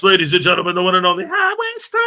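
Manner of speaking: boxing announcer hyping a chat regular; hype announcer. Pretend. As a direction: introduce him like a boxing champ. Hype intro of a chat viewer.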